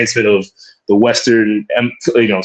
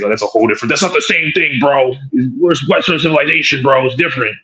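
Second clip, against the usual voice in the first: lightly voiced defensive objector; mock protesting; 2 semitones higher than usual. Speaker imitates white man excusing his hypocrisy, mock protesting. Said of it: "he'll, he'll claim that's".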